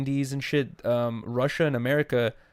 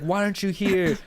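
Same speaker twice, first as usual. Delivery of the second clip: lightly mimicked lady, pitched up; imitated Russian lady; 6 semitones higher than usual. Quoting the lady from the video, lightly imitated Russian lady. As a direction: retell her question in a higher voice. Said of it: "the lady basically said in Russian".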